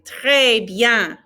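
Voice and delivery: "Très bien" with throaty French R, no N on "bien"; model phrase. Shown as a demonstration. Teacher models very well for students, throaty R. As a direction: give "Très" a back-of-throat R. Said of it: "répétez".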